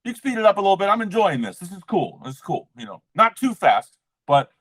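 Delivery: high, light, playful coaxing to spirit; sweetly high as if bargaining with spirit. Retold or imitated. In the shower, high playful coaxing.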